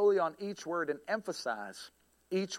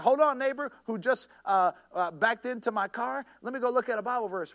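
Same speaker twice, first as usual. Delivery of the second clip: raised, louder acted-out exclamation; mock reply to neighbor; 5 semitones higher, 5 dB louder than usual. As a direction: act out stalling an annoying neighbor, higher.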